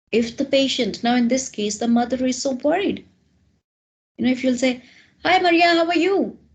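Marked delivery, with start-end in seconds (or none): 5.2-6.3 loud, rude, high-pitched, blunt delivery. Showing how not to greet a worried patient's mother: loud and rude. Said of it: "this tone is very loud and rude".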